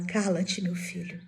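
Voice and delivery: softly voiced mother calming her child; gentle hushing. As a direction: hush him, letting the voice sink. Mother hushes her son, retold.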